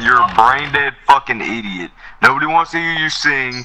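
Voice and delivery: angry. Real, not acted. Angry rant at player.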